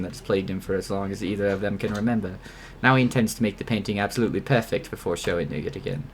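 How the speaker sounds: hushed, steady reading of the diary; story narration. Acted. Reads game narration aloud.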